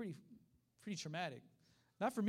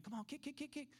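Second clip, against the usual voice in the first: soft, high-pitched repeated cues; hushed coaching; 8 semitones higher, 5 dB quieter than usual. Retold or imitated. Preacher as teacher bringing kids along, softly coaxing. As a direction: gently chant a child along. Instructor coaches child to kick.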